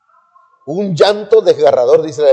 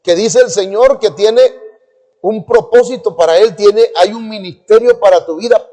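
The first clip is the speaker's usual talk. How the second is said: raised, declarative preacher voice; preacher prophesying; 5 semitones higher than usual. Retold or imitated. Preacher announcing a young man's calling, prophesying. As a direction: proclaim it higher, as from the pulpit. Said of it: "Y dice".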